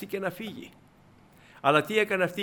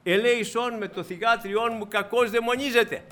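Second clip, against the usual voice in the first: mock pleading cry; 6 semitones higher, 3 dB louder than usual. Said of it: "και φώναζε".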